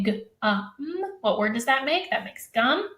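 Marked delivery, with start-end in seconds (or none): 0.0-1.0 each sound said alone; teacher modeling separate phonemes; isolated sounds. Shown as a demonstration. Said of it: "So if I say".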